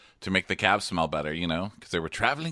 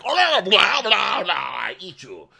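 loud, high gobbling burst, falling away; hammed-up ravenous blabbering; mock devouring kiss; 10 semitones higher, 5 dB louder than usual. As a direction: slobber it out like a greedy kisser. Mocking his over-eager, devouring kiss.

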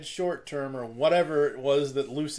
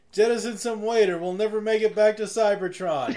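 Astro Train quote; 3 semitones higher than usual. Retold or imitated. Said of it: "You heard Astro Train".

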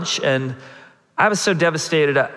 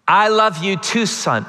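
louder reply; 4 semitones higher than usual. Retold or imitated. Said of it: "say it louder".

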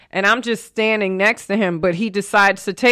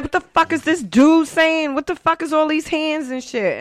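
high-pitched, exasperated mock outburst; retold indignation; 9 semitones higher than usual. Driver reacting to a man gesturing at her window, mock indignation. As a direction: act out baffled irritation at a stranger.

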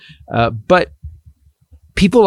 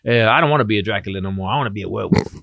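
Herschel Walker impression; 3 semitones lower, faster than usual. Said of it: "I was like".

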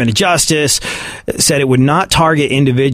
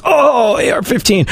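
much higher, swooning over the words; aroused gun lover; 10 semitones higher than usual. Retold or imitated. Texan friend hearing the gun named, mock swooning. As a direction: moan it like a lover's name. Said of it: "pitching a wildly inappropriate".

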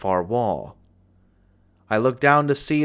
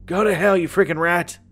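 screamed back; 6 semitones higher than usual. A narrator's reading. Older man screaming at the begging boy, furious. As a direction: scream it at the child. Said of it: "the older man screamed back".

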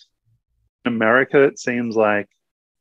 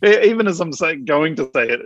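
ordinary talk, nothing marked

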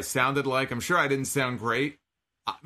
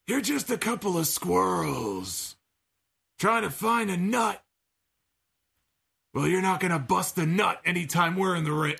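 imitating Jake the Snake; 4 semitones higher than usual. Podcaster quoting Jake's promo line in a strained impression. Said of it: "This is what Jake said".

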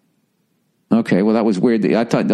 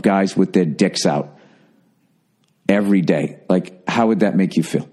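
calm, even, lower-pitched delivery; matter-of-fact; 5 semitones lower than usual. Acted. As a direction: state the hurt plainly, without drama. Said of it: "matter of factly, just say".

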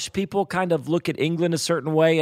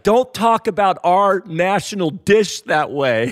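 slow, a touch louder mock indignation; lightly hammed-up protest for the national dish; mock offended Scot; 3 semitones higher, 4 dB louder, slower than usual. Host mimics the guest defending haggis with mock offence. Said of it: "He's like".

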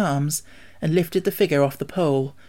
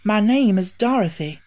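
put-on higher girl's introduction; a little girl saying her name; young girl voice; 6 semitones higher, 4 dB louder than usual. A narrator's reading. Dorothy introduces herself.

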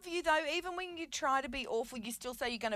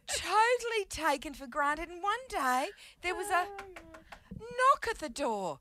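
hammy stage actor; 5 semitones higher than usual. Pretend. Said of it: "Is this your audition?".

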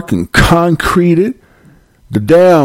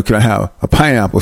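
lower-pitched put-on African accent; mock African accent; 5 semitones lower than usual. American mocking expats buying produce in Ghana, mock African accent. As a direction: imitate an African accent, lightly. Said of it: "they change the way they talk".

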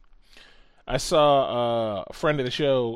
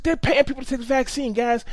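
high, loud imitated rant; mock yelling; 9 semitones higher, 4 dB louder than usual. Retelling the conspiracy guy yelling at everyone, mock rant. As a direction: ham up the guy yelling in the station. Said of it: "He's, like, yelling".

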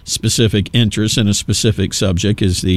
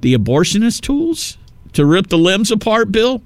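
indignant outrage; 7 semitones higher than usual. Real, not acted. Attacking Bill Gates's words.

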